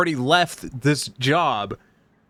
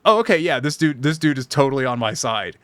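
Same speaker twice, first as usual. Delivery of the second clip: relieved customer. Retold or imitated. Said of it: "He went from".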